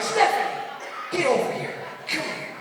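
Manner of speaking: put-on calling girlfriend over. Boyfriend calls his girlfriend away from the dancer, sharp and high. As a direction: call her back, sharp. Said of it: "I'm like".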